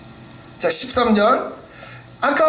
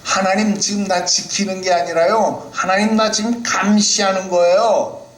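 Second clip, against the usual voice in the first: Job complaining to God; 6 semitones higher than usual. Acted. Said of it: "욥이 하나님 앞에 이런 불평하는 거예요".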